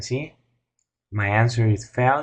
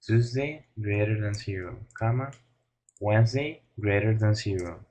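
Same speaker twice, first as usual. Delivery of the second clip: dictating; 4 dB quieter than usual. Shown as a demonstration. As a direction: read each term out as you type it. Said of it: "I'm gonna write the values".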